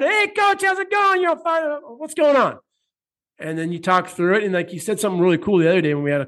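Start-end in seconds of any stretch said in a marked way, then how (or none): 0.0-2.6 much higher, chirpy "Hey, coach"; imitating the usually upbeat client's greeting; mock cheery client. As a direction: sing "Hey, coach" up high like a fired-up kid. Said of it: "the happy kid that's usually fired".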